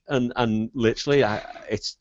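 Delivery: ordinary talk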